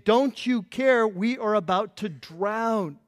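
mock-frantic complaint, drawn out slowly; irritated, panicked plea. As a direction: stretch it out like an aggrieved accusation. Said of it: "they are irritated because they are panicked".

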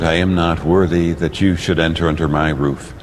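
ordinary talk, nothing marked

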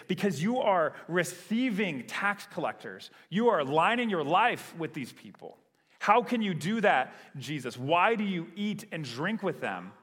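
mock frustrated accusation. Preacher voicing Pharisees who confront Jesus, mildly frustrated. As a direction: challenge him as a frustrated accuser would. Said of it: "They're frustrated at him".

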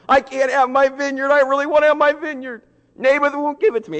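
hammed-up crybaby king wailing; mock bawling. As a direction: whine it like a crying spoiled child. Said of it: "He's bawling his eyes out".

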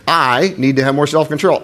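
self-control pushed up and leaned on; stress on self-control. Shown as a demonstration. Preacher demonstrates a morning affirmation, self-control stressed. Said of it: "you emphasize a different word every time".

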